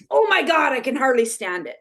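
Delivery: gushing with huge excitement; excited text. Retold or imitated. Reading her own excited text to her friend, thrilled. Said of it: "in my personality style".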